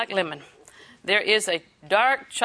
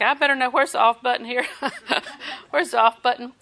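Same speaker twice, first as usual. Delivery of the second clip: amused worry; 3 semitones higher than usual. Retold or imitated. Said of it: "And I'm gonna think".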